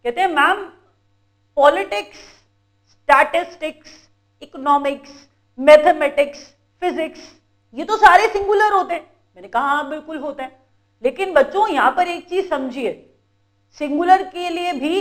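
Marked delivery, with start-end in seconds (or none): 0.3-9.0 imitating students. Students questioning their teacher in class, lightly imitated. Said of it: "students मेरी class में मुझे कहते".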